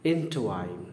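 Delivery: इंटवाइन said as two parts, इंट then वाइन; wrong split pronunciation. Shown as a demonstration. Teacher demos the wrong split for students. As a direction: demo the wrong way: इंट - वाइन broken apart. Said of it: "इंट मैंने पहले बोल दिया, अब वाइन बोल रहा हूँ, गलत है".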